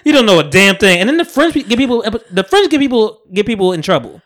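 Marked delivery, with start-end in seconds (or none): 0.0-1.0 laughing retort. Retold or imitated. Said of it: "I'm like".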